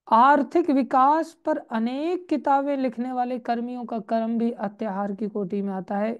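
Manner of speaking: projected, emphatic book reading; reading aloud. Acted. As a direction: read the passage out to the congregation. Reads the book text aloud.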